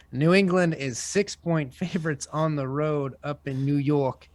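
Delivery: hammed-up New York accent, sportscaster style. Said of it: "that's my New York accent".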